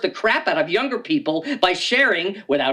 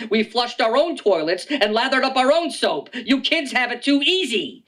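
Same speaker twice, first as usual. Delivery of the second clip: a hint of a scolding old-timer; cranky old man; 5 semitones higher than usual. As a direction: lecture the kids like a grumpy grandpa. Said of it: "in my day".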